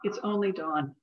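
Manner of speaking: deliberate poem recitation, pausing between lines; poetry reading. Acted. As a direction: give each line of verse its own space. Reads second poem aloud.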